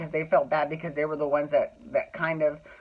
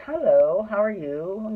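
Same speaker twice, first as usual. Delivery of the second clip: a bright, sunny hello, louder on hello; very friendly; 4 semitones higher, 3 dB louder, slower than usual. Retold or imitated. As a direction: greet them like an old friend. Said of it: "very friendly".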